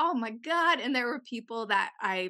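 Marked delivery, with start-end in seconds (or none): 0.0-0.8 high, startled, yelled exclamation. Retelling watching birds chase a crow: imitating own yelling. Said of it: "And I was just yelling".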